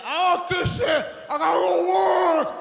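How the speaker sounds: impatient dad shout. Retold or imitated. Father dismissing mother as he leaves for work, impatient. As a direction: brush it off while heading to work.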